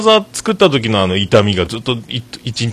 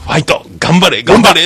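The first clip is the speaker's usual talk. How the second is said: mock nurse cheering; 5 semitones higher than usual. Nurse cheering on a patient lying down, mock pep chant. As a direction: chant it like a pep squad, climbing. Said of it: "それをやられたんですよ".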